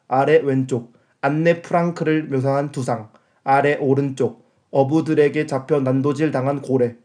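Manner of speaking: slow flat robot voice; monotone machine announcer. Shown as a demonstration. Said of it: "로봇 목소리로".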